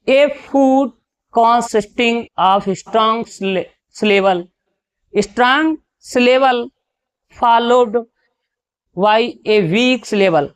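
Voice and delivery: slow, careful rereading; slow question reread. Acted. Teacher rereading the question for students, slow and careful. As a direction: go over it again word by word.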